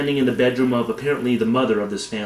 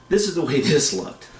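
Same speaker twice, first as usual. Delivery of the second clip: laughing mid-line; 4 semitones higher than usual. Real, not acted. Laughing at the squashed-car image.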